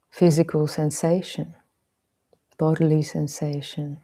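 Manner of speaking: measured meditation guide, long pauses between phrases; guided meditation. Real, not acted. Teacher leading listeners into meditation on bodily sensation, spacious guided delivery. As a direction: guide them gently into body awareness, leaving space.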